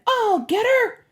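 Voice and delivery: high, loud battle cry; gung-ho high shout; excited yell. A narrator's reading. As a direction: yell it while charging in. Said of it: "he yelled again".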